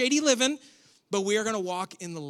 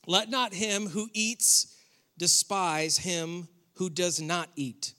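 slow, deliberate verse reading; scripture reading; 2 semitones lower, slower than usual. Acted. Preacher reading Romans fourteen to the congregation, slow scripture reading. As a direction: read it out slowly, pausing mid-verse.

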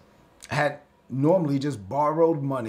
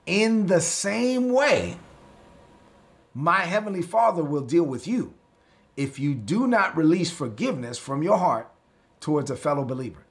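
scripture reading; 2 semitones higher than usual. Acted. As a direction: read the verse like holy writ. Reads verse thirty-five.

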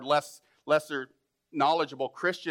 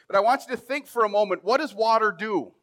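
preaching question; 6 semitones higher, 5 dB louder than usual. Acted.

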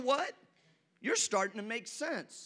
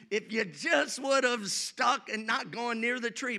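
raised, urgent preacher shout; 3 semitones higher than usual. Real, not acted. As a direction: call it out to the congregation. Preacher urging, shout heard.

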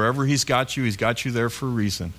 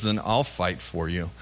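soft lower fatherly promise; gentle voice of God; 6 semitones lower, 5 dB quieter than usual. Acted. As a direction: lower and softer, tenderly reassuring. God's reply voiced by preacher.

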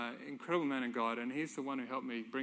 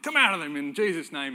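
forceful retold prayer; 4 semitones higher, 11 dB louder than usual. Friend loudly praying deliverance.

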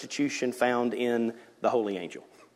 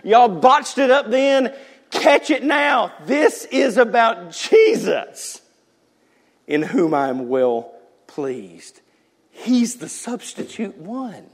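preaching at full force; 11 semitones higher, 9 dB louder than usual. Acted. Pastor to the congregation, full-force preaching. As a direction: thunder it out to the church.

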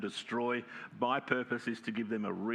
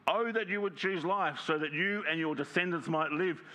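higher longing plea; pleading voice of God; 6 semitones higher than usual. Acted. God urging his people to choose life, higher plea. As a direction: lift the voice on Oh as heartfelt appeal. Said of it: "This is God speaking".

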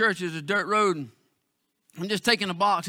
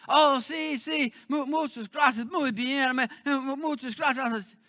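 grateful villagers; 2 semitones higher, 3 dB quieter, slower than usual. Retold or imitated.

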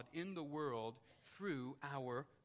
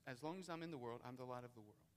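softer, lower, drawn back; soft restatement; 3 semitones lower, 5 dB quieter, faster than usual. Shown as a demonstration. Preacher repeating Jesus' words to the church, softly. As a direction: say it quietly, letting it sink in. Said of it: "he emphatically stresses here".

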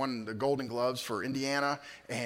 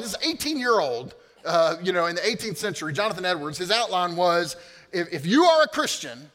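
loud preaching; 4 semitones higher, 7 dB louder than usual. Acted. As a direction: proclaim the verse with force. Preaching Romans 8:28 loudly.

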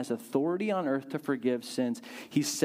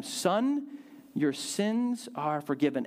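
tender Jesus; slower than usual. Acted. Jesus speaks to the paralytic.

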